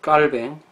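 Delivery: 깔뱅 with a tense, unaspirated kk; 깔뱅 ending in -뱅, not -빈; French pronunciation. Shown as a demonstration. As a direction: set 깔뱅 apart, French style. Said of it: "불어식 발음은 깔뱅".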